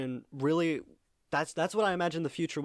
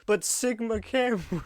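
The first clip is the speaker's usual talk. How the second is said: mock squeaky whine; 7 semitones higher than usual. Perez quoted again.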